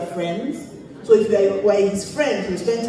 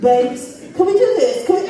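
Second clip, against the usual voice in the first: playful mock British accent, higher on the question; a friend's wife teasingly voiced with a British accent; imitating a British accent; 3 semitones higher, 3 dB louder than usual. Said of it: "with a British accent".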